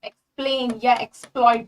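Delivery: एक्सप्लेन and एक्सप्लॉइट, each with a hissed "ks"; careful demo of k-s in एक्सप्लॉइट; audible x sound. Shown as a demonstration. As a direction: separate the "eks" in एक्सप्लेन and एक्सप्लॉइट. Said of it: "यहाँ पे एक्स की आवाज आती है".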